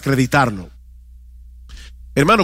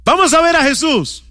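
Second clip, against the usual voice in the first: demons voiced; 7 semitones higher than usual. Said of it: "habitados por demonios que dicen".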